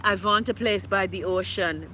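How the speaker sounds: lightly put-on European accent, v for w; mock foreign accent. Mimicking a woman house-hunting in the Bahamas, mock foreign accent. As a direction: imitate a foreign homebuyer's accent. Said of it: "okay, what woman say?".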